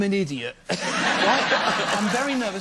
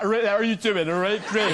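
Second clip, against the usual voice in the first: put-on Bristol accent; 5 semitones lower than usual. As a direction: slightly lower Bristol accent. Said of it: "I used to talk like that".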